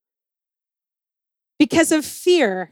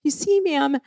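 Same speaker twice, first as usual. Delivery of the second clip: a lightly voiced, higher, overly polite plea, yes and ma'am buttering up; laying it on thick; 3 semitones higher than usual. Pleading to the ministry woman, mildly laying it on thick. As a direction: sweet-talk the official a little. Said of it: "and I was laying it on thick".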